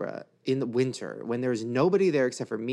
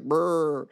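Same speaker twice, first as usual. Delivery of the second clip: mimicked vomiting; 3 dB louder than usual. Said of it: "and the lady's like".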